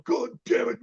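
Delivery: high-pitched, fuming impression; Rodney Dangerfield. Extra retelling the star fuming on the sidelines, mock exasperation. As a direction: imitate an exasperated, fuming comedian. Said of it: "And he is fuming".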